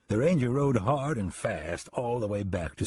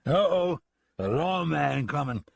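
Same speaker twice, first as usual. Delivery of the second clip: put-on drunken call; 5 semitones higher than usual. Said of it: "a drunken voice called out".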